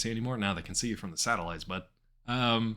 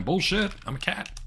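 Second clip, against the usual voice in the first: indignant outburst; 11 semitones higher, 5 dB louder than usual. Real, not acted. Protesting the game's refusal.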